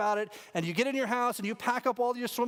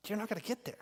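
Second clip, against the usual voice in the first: quiet emphasis; 7 dB quieter, faster than usual. Shown as a demonstration. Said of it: "repeated for emphasis".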